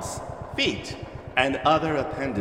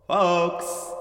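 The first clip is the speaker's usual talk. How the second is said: higher, louder call out; 4 semitones higher than usual. Acted. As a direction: call out to the riders.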